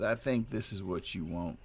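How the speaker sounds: lightly voiced Southern accent. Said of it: "from a New York to a Southern accent".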